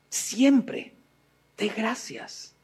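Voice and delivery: "siempre dé gracias" fading to a soft hush; hushed echo. Shown as a demonstration. Preacher to listeners, repeating softly as an echo. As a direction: let "dé gracias" drop almost to a breath. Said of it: "repeated exhortation".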